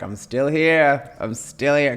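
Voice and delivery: put-on slow, drawn-out Australian accent; a light Australian drawl, slow; imitating Australian husband. Husband's Australian accent as she imitates him. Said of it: "'cause he's Australian, so he sounds like this".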